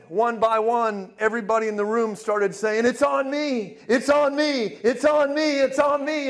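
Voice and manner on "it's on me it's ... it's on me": high, repeated exclamations of amazement; imitated excited cries. People discovering gold dust on themselves, imitated excited cries. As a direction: call it out higher, like one person after another. Voicing amazed room crying out.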